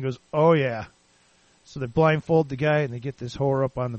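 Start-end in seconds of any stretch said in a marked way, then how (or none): 0.3-0.8 grinning relish. Acted. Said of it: "Bartender starts grinning".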